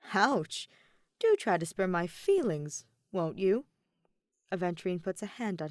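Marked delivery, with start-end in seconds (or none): 0.1-3.7 mock heartbreak. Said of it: "feigning heartbreak in his usual dramatic fashion".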